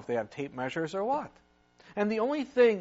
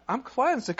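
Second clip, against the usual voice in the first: excited; 5 semitones higher than usual. Acted. Healed leper announces cure.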